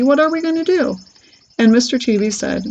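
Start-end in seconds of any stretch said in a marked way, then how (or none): 0.0-1.0 high-pitched plaintive wail; lament, pitch lifted high. A narrator's reading. Mother asks what to do about her tiny son, wailing. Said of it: "wailed Missus Teavee".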